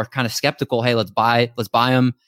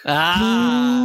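cheering; 11 semitones higher than usual. Real, not acted. Hosts cheer the announcement.

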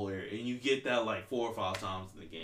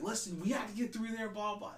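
mock captain; 10 semitones higher than usual. Captain orders the squad on.

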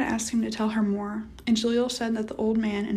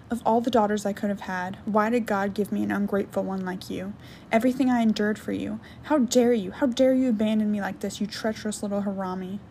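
angry rant. Acted. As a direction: tear into her ungrateful daughter. Nana's furious rant.

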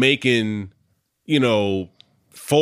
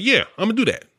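mocking naive confidence; 10 semitones higher, faster than usual. Mocking naive anime dream.

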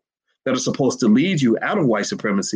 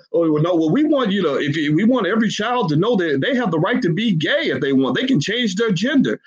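mock politician; 6 semitones higher than usual. Mocking politicians' evasion.

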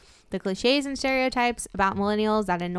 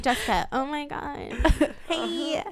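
put-on high, slow valley-girl gush; Jessica from Love Is Blind voice; 6 semitones higher, slower than usual. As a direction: put on a gushing reality-star girl voice. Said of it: "Should I be like Jessica from Love Is Blind?".

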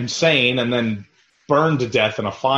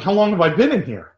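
mock dazed woman; 7 semitones higher, 5 dB louder than usual. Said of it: "She's like".

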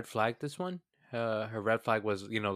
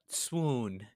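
laughing swoon; slower than usual. Real, not acted. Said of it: "reading swoon note, laughing".

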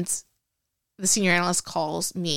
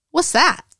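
higher and louder, puzzled; surprised question; 9 semitones higher, 6 dB louder than usual. Retold or imitated. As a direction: blurt it out, baffled. Retold confusion at new job.

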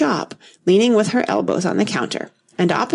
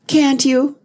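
high, pitying little question; 7 semitones higher, 4 dB louder than usual. A narrator's reading. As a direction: ask with gentle condescending pity. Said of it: "in a pitying tone".

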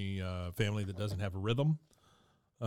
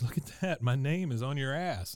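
Steve Martin impression; 4 semitones higher than usual. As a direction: say it with dopey wonder. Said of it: "he goes, he says".

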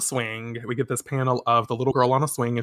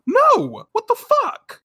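much higher, louder shriek of protest; shocked outburst; 5 dB louder, slower than usual. Retold or imitated. Host voicing Usagi's outraged protest at Mamoru, as a much higher, louder mock shriek. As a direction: squeal it in disbelief. Usagi objecting to the walk home.

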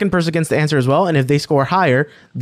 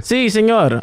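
put-on Mexican accent; 4 semitones higher, slower than usual. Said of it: "the accent comes out every time".

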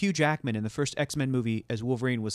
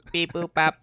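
robot beeps; 3 semitones higher, 4 dB louder, slower than usual. Retold or imitated.

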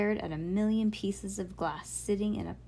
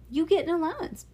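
higher and louder, a firm parent's reply; stern dad; 9 semitones higher, 5 dB louder, faster than usual. A narrator's reading. Dad to Bean, refusing money, firm and louder. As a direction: cut her off with a quick firm no.

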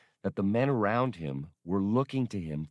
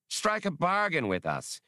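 mesmerizing; 9 semitones higher than usual. Acted. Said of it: "Ul Rashan's hypnotic voice".

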